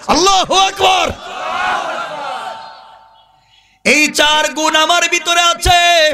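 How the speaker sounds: high, ringing sermon cry; full-force preaching. Acted. Preacher voicing the youth's oath to the public, high proclaiming chant. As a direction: declare it in a high, stretched chant.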